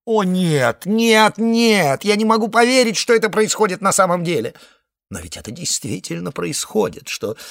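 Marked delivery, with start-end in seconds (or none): 0.0-4.5 high, loud rising protest, no no no; frightened egg crying out loud and high; panicked denial. A narrator's reading. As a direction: refuse to believe it, voice climbing.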